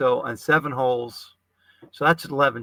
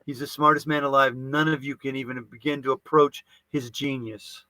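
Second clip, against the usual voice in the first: Stephen Miller impression. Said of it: "Stephen Miller".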